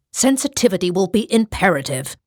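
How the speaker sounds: a touch of a priest's sharp retort; mildly snapped rebuke. Acted. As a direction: clip the warning short but understated. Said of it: "Father Wallace snapped".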